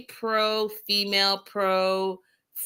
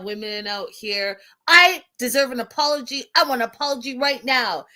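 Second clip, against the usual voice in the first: firm, raised scolding; mock stern telling-off; 3 semitones higher, 3 dB louder than usual. Jasmine scolding Natalie while holding her ear, firm scolding. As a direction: lay into her, firmly. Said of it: "and says".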